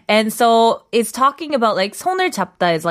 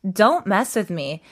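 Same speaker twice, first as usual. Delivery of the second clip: sassy boss. Retold or imitated. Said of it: "she's kinda being like".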